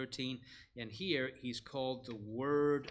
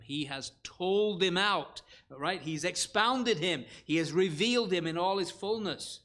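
emphatic preaching; 4 semitones higher, 8 dB louder than usual. Real, not acted. Preacher proclaiming Christ reveals God.

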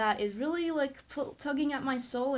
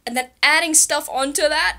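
speaking on held breath; 5 semitones higher, 12 dB louder than usual. Shown as a demonstration. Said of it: "taking a deep, deep, deep breath in".

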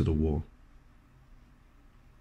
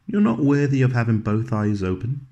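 mock scornful baby; 5 semitones higher, 5 dB louder than usual. Baby's one-eyed glare voiced.

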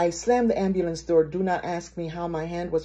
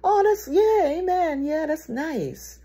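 high, falsely sweet polite reply; empty platitude; 9 semitones higher, slower than usual. Retold or imitated. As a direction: offer token approval in a high voice. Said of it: "just platitude, just kinda".

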